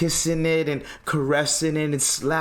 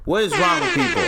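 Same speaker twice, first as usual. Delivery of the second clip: exasperated; 6 semitones higher, 4 dB louder, faster than usual. Real, not acted. Ranting, repeats line.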